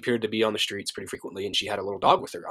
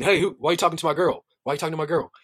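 mildly challenging, pitched up; retold confrontation; 5 semitones higher, faster than usual. Gentleman confronting a stranger talking to his girl, mildly challenging. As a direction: imitate a man butting in to challenge.

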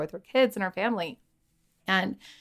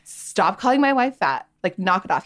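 mock angry yell; 5 dB louder than usual. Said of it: "yelled at me".

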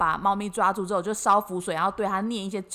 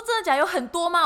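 startled disbelief; 7 semitones higher than usual. Retold or imitated. Startled customer reacting to the rice-ball vendor, shocked. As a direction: gasp it out in surprise.

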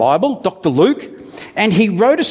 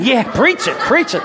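mock amen from the pews; 6 semitones higher than usual. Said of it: "Natalia's preaching it".

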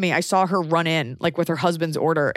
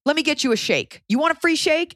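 quoting the employee; 9 semitones higher than usual. Retold or imitated. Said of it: "And he goes".

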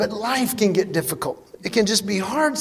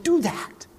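1 firm; 7 semitones higher, 5 dB quieter than usual. Retold or imitated. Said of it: "I'm like".

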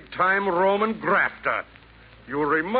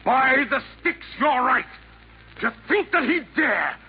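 indignant outburst; 5 semitones higher than usual. Acted. Assassin realizes Mephisto's vanity.

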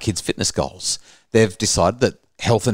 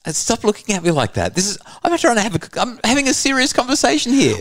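laughing protest; 12 semitones higher than usual. Real, not acted.

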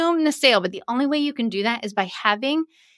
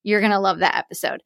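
ordinary delivery

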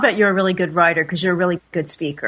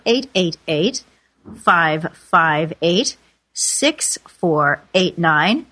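slow number read; much slower than usual. Shown as a demonstration. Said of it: "That's eight eight eight".

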